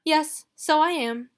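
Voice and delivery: Ruby taunting Marley; teasing. Acted. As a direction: needle him on purpose. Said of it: "I said to annoy him".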